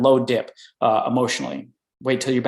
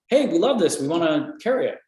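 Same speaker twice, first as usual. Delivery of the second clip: higher, eager opening, then easing; enthusiastic; 5 semitones higher than usual. Retold or imitated. Buyers responding to the product presentation, lightly enthusiastic. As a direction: play a keen buyer, lightly. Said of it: "their enthusiasm and excitement starts coming back up".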